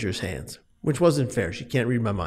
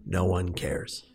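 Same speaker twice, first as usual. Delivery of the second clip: hopeless self-talk; 5 semitones lower, 8 dB quieter than usual. Retold or imitated. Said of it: "I said to myself".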